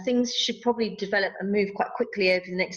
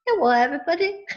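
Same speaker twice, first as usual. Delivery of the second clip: higher little person greeting; 5 semitones higher, 3 dB louder, faster than usual. Pretend. Little person in her head greeting everybody, small put-on voice. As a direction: pipe up as a tiny person. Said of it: "It's my little voice".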